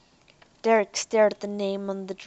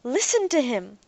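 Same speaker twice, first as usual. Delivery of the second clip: calling out; 4 semitones higher than usual. Acted. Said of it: "Ariel called out".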